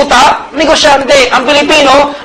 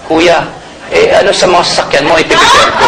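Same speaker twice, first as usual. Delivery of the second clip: mock housemate reply; 4 semitones lower than usual. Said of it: "Ano siya sabi sa akin?".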